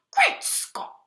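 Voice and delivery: high, breathy whispered gasp; shocked gasp. A narrator's reading. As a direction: gasp it out in disbelief. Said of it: "he gasped".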